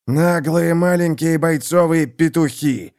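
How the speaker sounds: put-on slow, scraping old knight's rasp; grating. Unhorsed templar scorning the lords, slow and grating. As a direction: grind it out, winded and scornful. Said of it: "проскрежетал храмовник".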